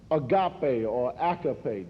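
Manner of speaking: "agape" said slowly twice, once stressed on the first syllable and once on the last; two pronunciations. Shown as a demonstration. Teacher showing congregation both ways to say "agape". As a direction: try "agape" with the accent moving from front to back. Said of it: "depending on where you want to put the accent".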